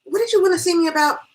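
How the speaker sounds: mild but clear weight on "me"; stress on ME. A narrator's reading. Hostess questioning her visitor, stress on "me". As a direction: lean lightly on the word "me". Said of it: "placed a mild but clear stress on the word me".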